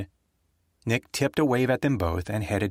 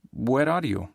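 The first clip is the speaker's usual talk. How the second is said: a hint of Rita's urgency; urgent woman; 3 semitones higher, slower than usual. Rita demanding Nick's location, a touch urgent. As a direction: ask quickly, all business.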